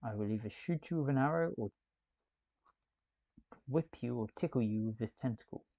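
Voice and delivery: lightly voiced posh gent; a hint of a posh man's voice; posh male voice. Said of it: "putting on a random posh male voice".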